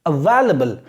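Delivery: "Available" with a reduced "la", a-VAIL-uh-bul; correct pronunciation. Shown as a demonstration. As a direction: say "Available" stressing VAIL, short "la". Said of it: "available नहीं". ("Available" को "अवेलबल" बोलें)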